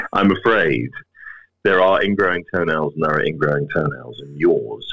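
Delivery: low, grave doctor breaking bad news; sinister doctor voice. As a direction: deliver doom gravely, a hint sinister. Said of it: "in a very sinister doctor voice".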